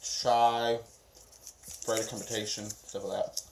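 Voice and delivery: talking with mouth full; chewing while answering. Real, not acted. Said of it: "Can you not talk with your mouth full?".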